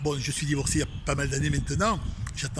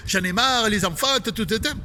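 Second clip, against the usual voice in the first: wife fed up; 6 semitones higher than usual. Retold or imitated. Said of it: "qu'elle va me dire".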